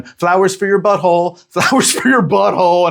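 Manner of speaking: high-pitched mock British flower seller; thick British accent. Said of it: "in her thick-ass British accent".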